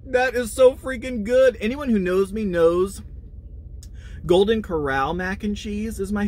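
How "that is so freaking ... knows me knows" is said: high, loud rave; excited. Real, not acted. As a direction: gush about how good it tastes. Raving about the food.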